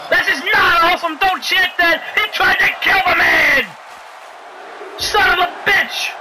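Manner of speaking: high-pitched indignant shout; outraged protest. Real, not acted. Commentator scolding the chanting crowd, high outraged shout.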